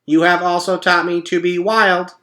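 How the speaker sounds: a cheerful machine making a speech; robot voice. A narrator's reading. Roz announcing the party truce to the animals, perky robot.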